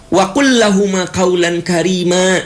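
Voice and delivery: "Wa qul lahuma qaulan karima" recited high and ringing. Shown as a demonstration.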